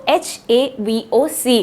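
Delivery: letters spelled slowly, one by one; slow spelling out. Shown as a demonstration. Teacher spelling the word for students, slowly. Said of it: "मैं आपको लिख के भी बता देती हूँ".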